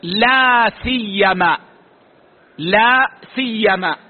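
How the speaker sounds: "لا سيما" slow, no waw in front; "لا سيما" dictated slowly to a class; form without the waw. Shown as a demonstration. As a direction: drop the waw and say "لا سيما" deliberately. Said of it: "فتقول".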